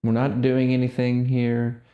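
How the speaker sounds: slow, spaced-out meditation cues; guided meditation. Real, not acted. Guiding listeners to just sit, guided meditation voice. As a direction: leave long silences between short, calm instructions.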